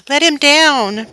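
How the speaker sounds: put-on high, slow boy's shriek. Little boy shrieking at his brother to save the kitten. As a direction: shriek it up at the kite. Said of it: "shrieked Freddie".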